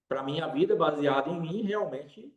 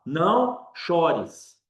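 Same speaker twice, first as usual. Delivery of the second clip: tender comfort; 3 dB louder, much slower than usual. Acted. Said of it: "vai começar a falar".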